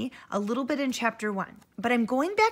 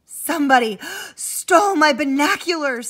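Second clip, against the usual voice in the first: panting; 4 semitones higher, 7 dB louder than usual. Acted.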